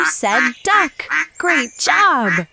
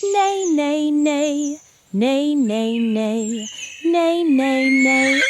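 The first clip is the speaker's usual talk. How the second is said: horse neigh. Shown as a demonstration. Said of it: "The horse on the farm says".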